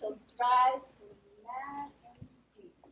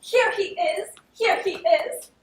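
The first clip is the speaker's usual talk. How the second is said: calling out; 4 semitones higher, 7 dB louder, slower than usual. Acted. Fabian calls out loudly.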